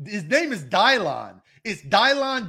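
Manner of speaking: Dylon said with a long "die" sound, Dai-lon; His name is "Dylon", Dai-lon diye, uzun "ay" sesiyle; mock mispronounced Dylan. Shown as a demonstration. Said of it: "I can't say Dylan until I get to the sixth".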